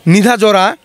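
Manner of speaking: word said in reverse; backwards speech. Shown as a demonstration. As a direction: read the word backwards, syllable by syllable. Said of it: "এই লিখে রেখেছে".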